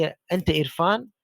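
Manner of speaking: slow अंत इरफान, rising on इरफान; slow question. Shown as a demonstration. Teacher slowly asking a student if he is Irfan. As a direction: ask it slowly with a lift at the end. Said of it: "मैंने कहा कि".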